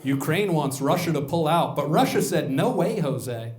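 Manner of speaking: gossip-show host breaking war news; entertainment news voice. Retold or imitated. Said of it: "the way they talk about, like, entertainment news".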